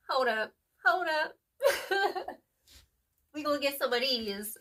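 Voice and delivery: giggly, slowed-down stop; laughing. Real, not acted. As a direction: caught off guard, laughing at herself. Forgot to pull advice cards.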